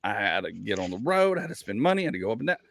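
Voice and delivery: put-on scolding a picky kid with mounting heat; heated rant to a kid. Father ranting at his kid about hustling for money. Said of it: "I'm like".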